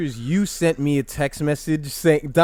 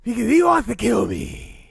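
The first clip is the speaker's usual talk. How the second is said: Batman voice; 8 semitones higher, 3 dB louder than usual. Pretend. Answering as Batman.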